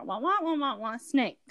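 muffled trombone-like wah wah babble; garbled wah-wah with only snake clear; Peanuts adult voice. Retold or imitated. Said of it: "Like the Peanuts character".

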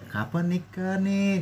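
easy-going, inoffensive relative's question; pleasant asking. Shown as a demonstration. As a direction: ask it gently, drawn out. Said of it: "Masih kayak gitu masih enak ya".

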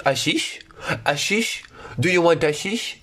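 lightly voiced foreign hawker, slow; mock street seller. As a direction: imitate a seller pushing his goods in broken English. Imita vendedor que o aborda. (imitação leve de vendedor de rua estrangeiro)

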